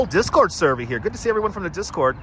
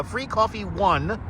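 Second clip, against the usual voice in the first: spelling out the code; 3 semitones higher, slower than usual. Shown as a demonstration. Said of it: "all capital letters".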